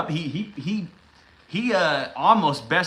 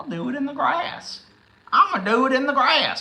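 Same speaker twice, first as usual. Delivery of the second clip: put-on, very high Louisiana Cajun accent; 11 semitones higher than usual. Asking the audience who will win the matches, in a Louisiana Cajun accent. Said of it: "You sound like a goddamn Louisiana person".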